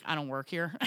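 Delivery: low, offhand dismissal; blunt brush-off. Retold or imitated. Store worker to customer asking for help, blunt brush-off. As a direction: brush them off flatly. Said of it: "but I usually say".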